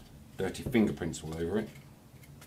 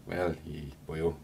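Welsh accent; slower than usual. Shown as a demonstration. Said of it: "And the Welsh one is".

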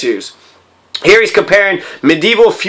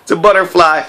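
jumps way up high on "Oh my God," then settles; hammed-up gasp of wonder; playful imitation of a man thrilled by a butterfly; mock excited squeal; 4 semitones higher than usual. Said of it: "He's like".

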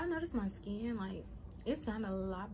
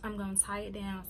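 chewing gum. Real, not acted. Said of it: "Sorry, I'm chewing gum".

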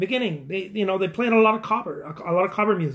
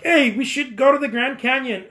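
higher-pitched, acted enthusiasm; eager suggestion; 5 semitones higher than usual. Friend proposing a Grand Canyon trip, acted eagerness.

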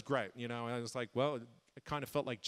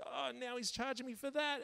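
mock dismay; 10 semitones higher, 5 dB quieter than usual. Reenacting dismay at the charges.

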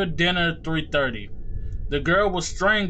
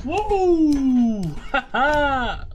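high startled whoa into laugh; startled yelp; 9 semitones higher, 4 dB louder, much slower than usual. Real, not acted. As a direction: jump with fright, then laugh. Sudden scare in game.

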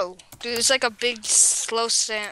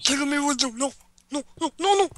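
pleading whine; 4 semitones higher than usual. Acted.

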